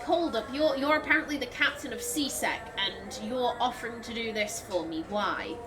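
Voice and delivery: mildly wary, dropping low toward the end; acted suspicion. Player voicing character doubting the captain's offer, mildly suspicious. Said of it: "make her raise an eyebrow".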